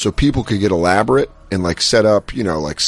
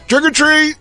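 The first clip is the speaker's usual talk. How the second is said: put-on much higher, bright kid greeting; chirpy trick or treat. Kid at the door faking innocence, high trick or treat. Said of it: "just picks up and goes".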